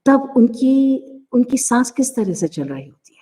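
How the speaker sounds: whispered like a nervous person; nervous breath. Shown as a demonstration. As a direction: show the shaky breath in a whisper. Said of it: "जब वो बहुत nervous होते हैं". (घबराई हुई फुसफुसाहट)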